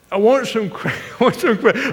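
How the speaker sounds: high, loud mock garble, spraying cake; hammed-up cake-spitting little girl; mouth full of cake. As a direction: imitate a child spluttering words through a stuffed mouth. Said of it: "like, sprang out".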